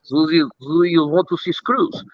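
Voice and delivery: hushed bad Russian accent; a bad Russian accent, kept hushed and teasing; Zhenya's bad Russian accent. Pilot teasing co-pilot about screws, hushed bad Russian accent. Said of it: "is a really bad Russian accent".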